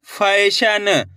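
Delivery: "फैशन" syllable by syllable, with ai and a released final n; sounded-out word. Shown as a demonstration. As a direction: sound out "फैशन" as fai-sha-na. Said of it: "उसी तरीके से आपको भी पढ़ना है". ("फैशन" का हर अक्षर अलग और साफ़)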